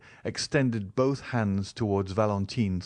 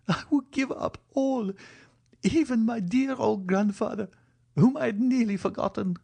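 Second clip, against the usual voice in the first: put-on higher, tearful young woman; sobbing heroine; 13 semitones higher than usual. A narrator's reading. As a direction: give it all up through mild tears.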